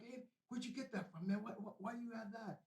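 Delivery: lightly imitated worried father.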